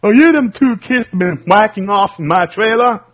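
put-on furious old redneck yelling; Mister Anderson again. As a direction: shout it like you caught them red-handed. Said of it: "Mister Anderson or something".

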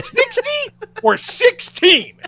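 high, slow and incredulous; can't believe the price he's hearing; disbelieving question. Retold or imitated. Guest asks the waiter in disbelief about the breakfast price, high and slow.

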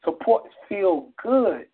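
measured poem delivery with weighted pauses; phrase by phrase, lingering on key words; spoken-word poetry. Acted. Poet reciting a love poem to the movement, spoken-word style.

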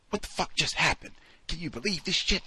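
high, panicked disbelief; voicing a rioter in sudden panic; frantic. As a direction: blurt it out in frantic confusion. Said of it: "in this sort of frantic".

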